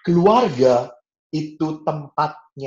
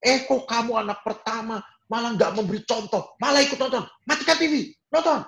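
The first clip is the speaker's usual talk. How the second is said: father's angry shout; 12 semitones higher than usual. Retold or imitated. Preacher acts his father yelling at kids watching TV. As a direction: scold the kids like a furious dad. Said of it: "dan teriak".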